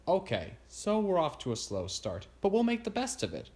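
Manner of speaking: mildly upbeat, lifting at the end; trying to stay optimistic. A narrator's reading. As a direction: put a hopeful face on it. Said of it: "trying to stay optimistic".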